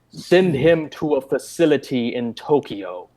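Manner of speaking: mock-menacing movie villain, slowed right down; slow, deliberate villain delivery of an order. Quoting the movie villain's line to the co-host, mock menacing. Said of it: "really menacingly".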